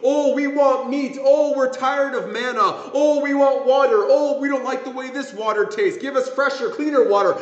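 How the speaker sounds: lightly hammed-up grumbling; mock whining. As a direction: imitate people whining one gripe after another. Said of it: "whining and complaining".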